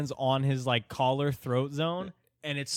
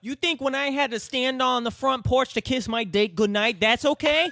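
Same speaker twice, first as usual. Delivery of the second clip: much higher, louder outraged parody, laughing; mock ranting short man; 12 semitones higher, 6 dB louder than usual. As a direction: yell the indignant question like the tiny furious man.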